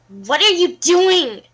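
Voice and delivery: whispered fury. A narrator's reading. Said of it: "she whispered angrily".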